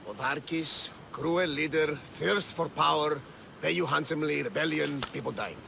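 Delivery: hurried bullet-point recap of the note; quick summary. Acted. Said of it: "The short version, please".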